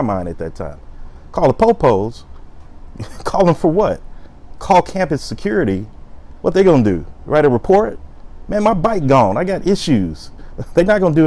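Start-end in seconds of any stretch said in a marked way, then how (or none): 1.3-8.0 scoffing disbelief. Real, not acted. Mocking calling campus security. 8.5-10.3 mock complaint. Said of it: "imitating friend's reply".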